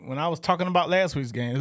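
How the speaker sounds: normal talking voice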